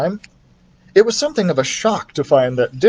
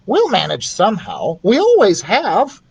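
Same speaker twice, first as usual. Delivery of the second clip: wrong voice; 8 semitones higher than usual. Acted. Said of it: "Oh, wrong voice".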